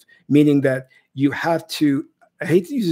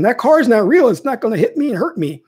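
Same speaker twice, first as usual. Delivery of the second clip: mock defiant boast; 7 semitones higher, 4 dB louder than usual. Mocking a foolish person.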